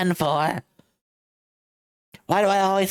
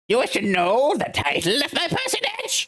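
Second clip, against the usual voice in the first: lofty, amused rich man; pompous CEO voice; 3 semitones higher than usual. Acted. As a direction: look down on the lawyer with a chuckle. Red White's pompous lines.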